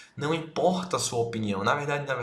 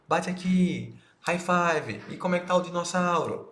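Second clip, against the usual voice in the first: put-on higher, playful dad voice to a little boy; dad hyping up his toddler son, higher and playful; talking to a toddler; 5 semitones higher than usual. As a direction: cheer up the kid like a playful dad. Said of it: "você vai falar como?".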